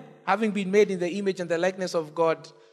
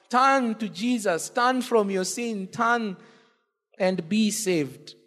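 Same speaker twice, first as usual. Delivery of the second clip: earnest altar call; slower than usual. Real, not acted. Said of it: "altar call".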